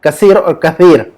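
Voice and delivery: slow कसीर with s, then कसीर with th; contrasting two sounds. Shown as a demonstration. Teacher contrasting two Arabic words, slowly contrasting s and th. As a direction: set the s against the tongue-tip th in कसीर. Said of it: "आवाज में, अ, meaning change होती है".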